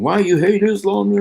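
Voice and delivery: imagined critic. Retold or imitated. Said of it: "a lot of you guys are thinking".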